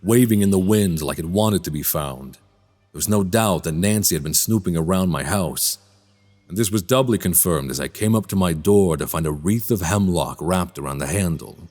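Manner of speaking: measured, understated first-person narrator; brooding story narration. Acted. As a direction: reflective storyteller's voice-over.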